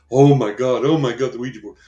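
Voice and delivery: loud, high mock horror at the Ouija board; mock panic. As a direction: ham up a frightened gasp of alarm. Mocking people panicking at Ouija.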